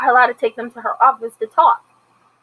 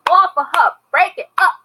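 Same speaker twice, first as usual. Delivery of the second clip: stern intervening; 6 semitones higher, 4 dB louder than usual. Retold or imitated. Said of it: "Miss Carlotta was like".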